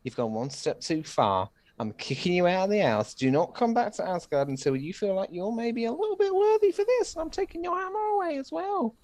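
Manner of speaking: rising, booming banishment of a son; angry father king. Retold or imitated. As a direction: scold the son, building to high outrage. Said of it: "Dad goes".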